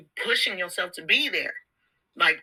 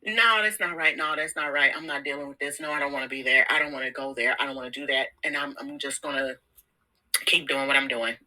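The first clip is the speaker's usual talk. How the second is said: lower, stubborn refusing inner voice; inner self refusing; 4 semitones lower than usual. Retold or imitated. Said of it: "your actual self is going".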